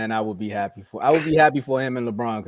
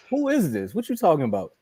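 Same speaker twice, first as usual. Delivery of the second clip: higher, mildly puzzled imitation of LeBron on the phone; 3 semitones higher than usual. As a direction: play a confused LeBron answering the phone. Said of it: "Bron was probably like".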